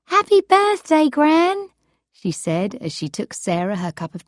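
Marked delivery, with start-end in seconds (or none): 0.1-1.7 put-on bright, higher young woman; cheerful granddaughter voice. Cindy voiced by reader.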